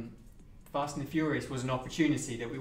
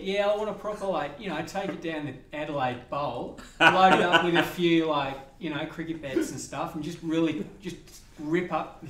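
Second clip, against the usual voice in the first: put-on Australian accent; 2 semitones higher, 4 dB louder than usual. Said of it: "let's see how long you can stay Australian".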